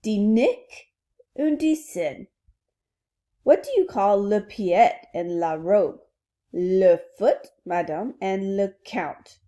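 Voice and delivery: put-on amateurish French-accented English. Princess learning foot and gown, French accent. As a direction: keep up a rough French accent. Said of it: "hear this in a French accent".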